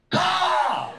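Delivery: high, loud mock crow call; imitated crow cawing. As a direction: squawk like an angry crow.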